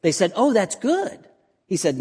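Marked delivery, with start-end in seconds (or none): 0.3-1.2 high-pitched approval, rising on "good"; upbeat reaction. Acted. Comic song's good-bad back-and-forth.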